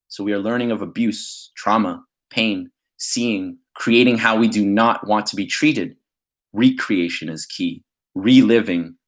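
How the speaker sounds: measured spoken-word reading, phrase by phrase; spoken-word poem delivery; poetry recitation. Acted. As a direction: recite your poem with deliberate pauses. Reads own poem aloud.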